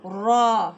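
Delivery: را said heavy and full; thick. Shown as a demonstration. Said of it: "را کو ہم نے موٹا کرنا ہے".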